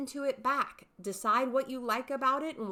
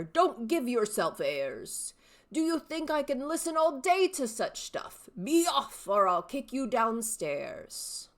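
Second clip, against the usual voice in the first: mock-stern old man, louder and slowed; old father, scolding; 3 semitones higher, 4 dB louder than usual. Shown as a demonstration. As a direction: shoo the pestering son away. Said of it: "three distinct character voices".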